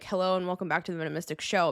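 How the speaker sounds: rushed, tossed-off show intro; quick intro parody. Shown as a demonstration. Host mocking her own intro, rattled off fast. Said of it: "I can't even do my, like".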